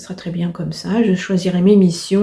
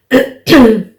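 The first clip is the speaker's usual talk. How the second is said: throat clearing; 4 semitones higher, 10 dB louder than usual. Real, not acted. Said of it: "j'ai la voix qui déraille".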